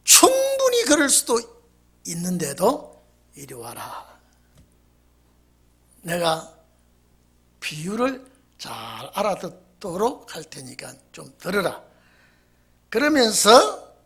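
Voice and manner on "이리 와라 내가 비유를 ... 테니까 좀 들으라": much softer, lower, unhurried; calm invitation. Retold or imitated. Jesus gently calling his accusers to hear a parable, soft and calm. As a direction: bid them gently to come and listen. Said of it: "주님은 비유의 말씀을 하십니다".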